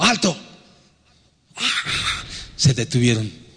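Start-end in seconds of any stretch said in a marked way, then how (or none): 0.0-0.4 retold shout. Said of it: "les grité así".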